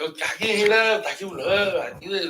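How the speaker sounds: high-pitched Moroccan chatter; fast Moroccan talk. Shown as a demonstration. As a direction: imitate rapid, repetitive Moroccan Arabic. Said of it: "They talk so fast".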